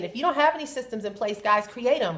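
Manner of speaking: ordinary talk, nothing marked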